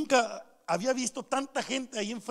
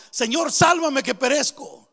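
loud plea to the Lord; crying out; 5 dB louder than usual. Acted. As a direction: cry out for rescue from the pulpit. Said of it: "muchas veces no clamamos". (clamor en voz alta)

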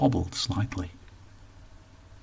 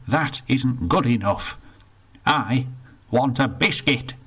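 put-on indignant old northerner, rushed in the middle; grumpy old Bertie; 2 semitones higher than usual. Bertie complains to the attendant, indignant grumble. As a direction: grumble about the lost pound.

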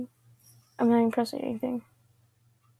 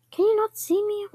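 higher and louder, incredulous; surprised high call; 8 semitones higher, 4 dB louder than usual. Real, not acted. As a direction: shout it in disbelief.

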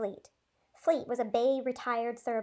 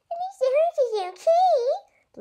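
much higher, slow sour mocking echo; mother grumbling back at daughter, cranky; cranky mimicking; 7 dB louder, slower than usual. A narrator's reading. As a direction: echo her words grumpily. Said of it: "limped Mama, cranky as ever".

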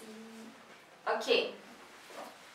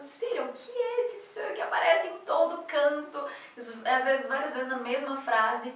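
higher, emphatic baffled question; baffled and insistent, pitched up; puzzled student; 3 semitones higher than usual. Retold or imitated. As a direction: quote an exasperated, puzzled student.

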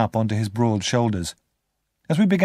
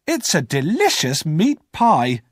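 higher, slow proud hostess voice; proud sister; 6 semitones higher, 4 dB louder, slower than usual. Acted. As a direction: present the pie like a treat.

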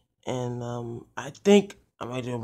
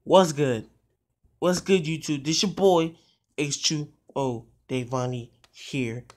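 punchier, louder channel greeting; changed-up intro; 3 dB louder than usual. Shown as a demonstration. Vlogger greeting YouTube viewers afresh, changed-up intro. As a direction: switch up the usual intro with more punch. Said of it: "So I'm gonna change it up".

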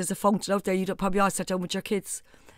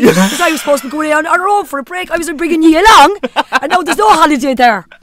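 louder and higher, furious; mother venting about the ruined holiday; angry rant; 6 semitones higher, 13 dB louder than usual. Real, not acted. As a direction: let the frustration burst out.

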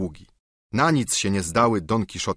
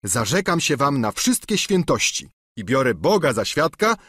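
higher, whining plea; pleading squire; 8 semitones higher, 3 dB louder than usual. Acted. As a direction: beg like a bruised peasant. Sancho voiced.

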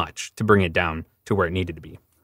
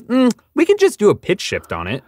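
much higher, bright mock voice; high mock director; 12 semitones higher, 4 dB louder than usual. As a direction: pitch it way up, teasing. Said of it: "And he goes".

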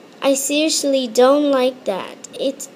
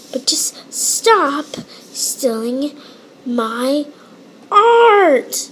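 whisper to shout; much slower than usual. Acted. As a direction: hush it, then blast art. Whispered then yelled.

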